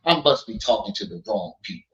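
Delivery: low-key Rango, half-mocking the donors; lightly voiced Rango scolding the chat; Rango impression. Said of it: "That's my Rango, that's my Rango impression".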